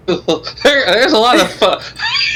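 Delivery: breaking into laughter mid-word; real laugh cutting the word off. Real, not acted. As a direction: giggle through it slowly.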